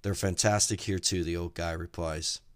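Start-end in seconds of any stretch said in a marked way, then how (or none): 0.0-1.2 cheerfully. Acted.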